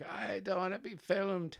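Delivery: high-pitched put-on voice of a grumbling Offaly farmer; baby son's voice as Offaly farmer. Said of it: "that's his voice".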